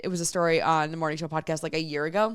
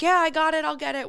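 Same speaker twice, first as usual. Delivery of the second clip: higher, louder, breezy mock dismissal; brushing it off; 9 semitones higher, 5 dB louder than usual. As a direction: humor the kid, wave it off. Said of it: "she's like".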